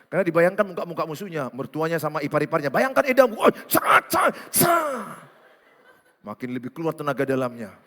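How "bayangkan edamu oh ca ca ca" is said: high, forceful striking cries; comic combat yells; mock boxing shouts. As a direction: act out throwing punches with each shout. Acting out punching imagined in-law.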